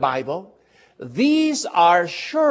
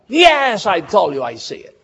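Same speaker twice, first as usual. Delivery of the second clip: put-on exasperated boy, sharp jump up on yes then quick; a kid fed up with repeated questions; impatient boy snapping back; irritated reply; 4 semitones higher, 3 dB louder than usual. Tommy increasingly upset.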